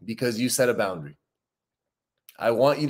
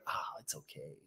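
dismissive shrug; 10 semitones lower, 21 dB quieter than usual. Retold or imitated. Dismissive caving on a boundary.

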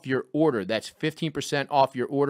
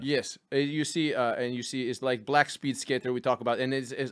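easygoing mock-Russian accent; 2 semitones lower, 4 dB quieter than usual. Host asking for his Olympic music, Russian accent. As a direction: ramble in broken Russian-accented English. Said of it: "but Russian".

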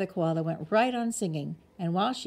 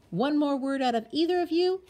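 stern warning; 9 semitones higher, 6 dB louder than usual. A narrator's reading. Mother's warning to bickering kids.

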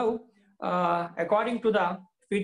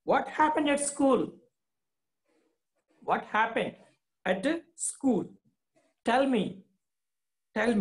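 lightly voiced father, raised and pressing; worried father; 5 semitones higher than usual. Teacher voicing the father asking Swami, anxious and higher. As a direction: urge the boy to answer, pitched up. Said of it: "asked his father".

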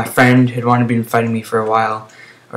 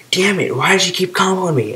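mock raging; 7 semitones higher, 4 dB quieter than usual. Gamer imitating his raging opponent, mock raging. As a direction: mimic a whining sore loser. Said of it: "he was raging pretty hard".

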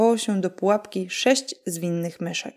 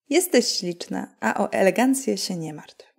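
lightly voiced fairy godmother. Godmother reassuring Cinderella about her elegance, lightly voiced.

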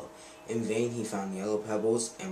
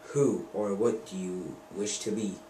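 magic lizard. Acted. Narrator voices the magic lizard.

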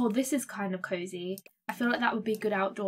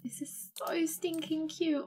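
soft unvoiced whisper of delight; hushed adoring whisper; 4 semitones higher, 6 dB quieter, slower than usual. Real, not acted. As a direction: whisper it like it's too cute to say aloud. Whispering over cute hair.

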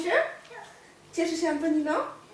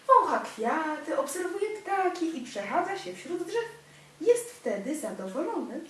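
gentle storybook narration; reading to a child. A narrator's reading. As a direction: read it like a bedtime picture book. Reads picture book to child.

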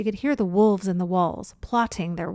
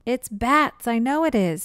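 gleeful and louder; delighted that it might be bats; happy; 4 semitones higher, 6 dB louder than usual. Acted. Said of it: "said her brother happily".

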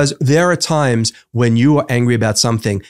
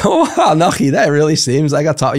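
mock gushing sympathy; 2 semitones higher than usual. Friend feigning sympathy to a troubled speaker, hammed-up gush. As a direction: gush like a friend who isn't listening.

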